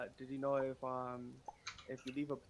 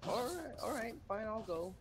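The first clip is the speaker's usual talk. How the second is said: retold grudging assent; 8 semitones higher than usual. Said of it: "So he's like".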